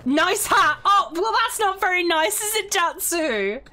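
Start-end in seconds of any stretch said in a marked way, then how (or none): 0.0-2.7 mock indignant. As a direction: pretend to be offended. Mock-accusing teammate over hat.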